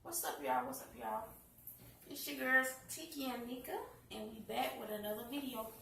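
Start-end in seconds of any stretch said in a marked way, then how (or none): 0.0-0.7 much lower, playful deep greeting. Pretend. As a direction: drop the voice way down for fun. Two-take greeting, deep first.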